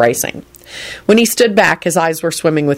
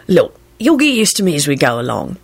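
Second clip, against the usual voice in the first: nonchalant. A narrator's reading. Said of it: "he replied nonchalantly".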